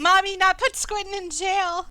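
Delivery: high, loud little creature voice; pixie. Acted. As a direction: squeak it out like a tiny sea creature. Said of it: "a little voice in your head".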